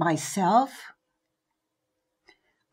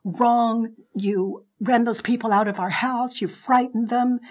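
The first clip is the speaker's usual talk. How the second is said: angry retort; 4 semitones higher, 4 dB louder than usual. Retold or imitated. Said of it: "And I said".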